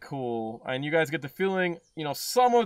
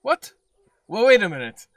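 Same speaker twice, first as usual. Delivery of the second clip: flustered nerdy voice; 6 semitones higher, 8 dB louder than usual. Acted. Motif flustered.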